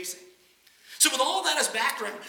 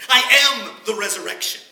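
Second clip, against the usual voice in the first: proclaiming; 11 dB louder than usual. Acted. Preacher proclaims Jesus' claim.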